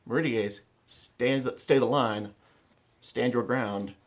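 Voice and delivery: loud, short called orders; shouted command. Shown as a demonstration. Commander calling his line to hold, loud shouted orders. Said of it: "you can't yell more than three syllables".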